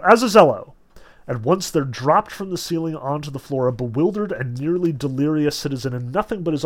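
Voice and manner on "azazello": loud summoning call. A narrator's reading. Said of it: "he called out".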